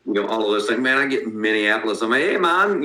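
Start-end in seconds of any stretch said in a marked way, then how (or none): 2.2-2.8 lightly put-on Minnesota Fargo accent, pitched higher; mock Upper Midwest greeting in a half-hearted Fargo accent. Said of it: "I sound like I'm ... half-assing a Fargo movie".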